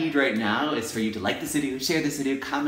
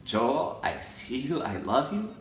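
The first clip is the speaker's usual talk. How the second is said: tender self-affirmation; 3 dB quieter than usual. Real, not acted. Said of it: "listen to my needs and say".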